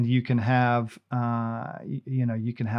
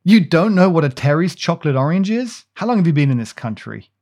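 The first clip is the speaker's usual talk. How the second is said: mock outrage; 3 semitones higher, 7 dB louder than usual. Real, not acted. Friend shocked by ignorance.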